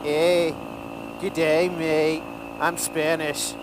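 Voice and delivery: slow, jokingly faked Australian accent; mock foreign accent. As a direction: put on a silly mismatched foreign accent. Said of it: "I could talk with an accent".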